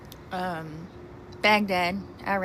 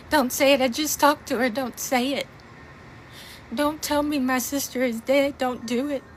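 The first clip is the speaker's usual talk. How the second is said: desperate pleading; 3 semitones higher than usual. Retold or imitated. Pleading with soldiers at door.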